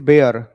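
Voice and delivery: slow "bear", open "e" sound; correct pronunciation. Shown as a demonstration. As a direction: bear said as "beər", one syllable. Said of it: "इसको बियर मत पढ़ा करो".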